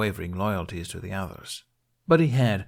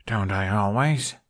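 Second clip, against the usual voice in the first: grinning retort. Acted. Hiccup grinning at Astrid.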